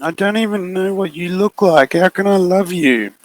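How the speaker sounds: put-on high, doubtful girl's voice; lightly voiced kid pushing back; wary girl. Maddie asking the figure how she could love it.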